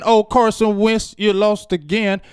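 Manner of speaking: high, slow mocking jeer; slow gloating taunt. Real, not acted. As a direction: draw out the gloat. Sing-song taunt of rival.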